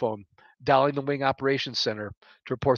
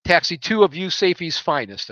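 fighter pilot radio; 5 dB louder than usual. Acted. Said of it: "in my best fighter pilot radio voice".

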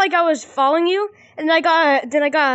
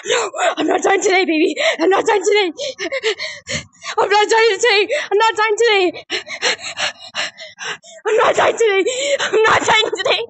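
defiant shouting; 4 semitones higher than usual. Real, not acted. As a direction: fight for your life. Fleeing monsters, defiant.

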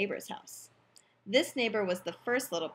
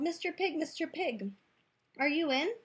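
higher sing-out to someone indoors; calling out; 5 semitones higher than usual. Acted. Wolf calling at the brick house, lightly calling out. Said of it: "I called".

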